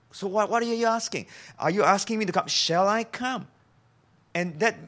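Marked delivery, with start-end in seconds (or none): 0.1-3.5 testing questions. Acted. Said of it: "Jesus is now testing this person".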